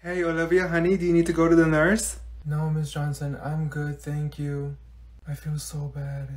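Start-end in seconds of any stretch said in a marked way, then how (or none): 2.4-6.3 slow and much softer, droopy; mopey sad. Acted. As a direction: drag each word like nothing matters. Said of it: "She looks so sad".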